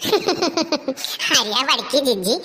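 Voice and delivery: slow laughing call. Acted. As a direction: laugh it out warmly. Laughing after the song.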